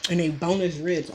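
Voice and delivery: words round a mouthful; chewing while talking. Real, not acted. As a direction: talk while chewing food. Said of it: "I'm chewing with my mouth open".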